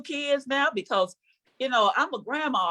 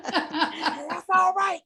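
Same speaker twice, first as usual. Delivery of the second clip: very slow, higher, laughing; mock sweet reassurance; slow drawn-out sweetness; 9 semitones higher, much slower than usual. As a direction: stretch it out sweetly. Continues sweet mother quote.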